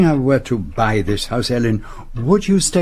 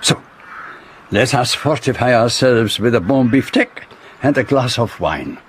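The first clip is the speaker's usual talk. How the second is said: put-on deliberate French accent with weighty pauses; French-accented detective; faster than usual. Detective explaining the mystery to his friend, deliberate French accent. Poirot, a character in the drama.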